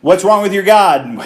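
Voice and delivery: hammed-up English accent taunt; mock English accent. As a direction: jeer like a stagey English prophet. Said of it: "an English accent".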